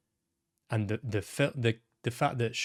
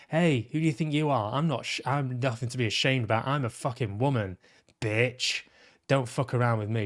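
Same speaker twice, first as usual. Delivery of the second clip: outspoken, aggressive. Retold or imitated. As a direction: retort like an outspoken woman standing her ground. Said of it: "she's very aggressive".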